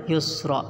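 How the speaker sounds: "युसरा" falling on an open long aa; long aa ending. Shown as a demonstration. Teacher answering own question, "युसरा" ending in long aa. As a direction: end "युसरा" open, without an n. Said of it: "क्या पढ़ेंगे?".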